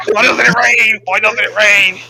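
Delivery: high-pitched wail at the sky; hammed-up anguish, easing down from a scream; desperate plea. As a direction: wail it in acted despair. Acted plea for rain continues.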